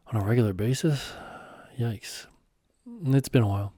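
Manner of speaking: sheepish. Acted. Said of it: "I responded sheepishly".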